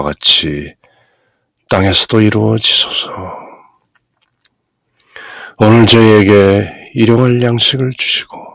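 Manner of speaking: Korean Lord's Prayer with a clear pause after each phrase; paced phrase by phrase. Shown as a demonstration. Priest demonstrating the paced prayer to the congregation, phrase by phrase. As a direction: stop and breathe at every cross mark. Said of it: "주님의 기도".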